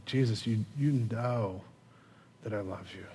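soft, halting, low plea; broken. Acted. Peter answering Jesus a second time, quietly broken. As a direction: falter and sink to very quiet. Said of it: "imagine the brokenness of Peter".

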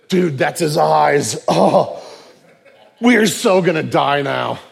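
loud, drawn-out mock dread; horrified realisation. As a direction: play comic doom, stretching the words. Brothers realise they will die.

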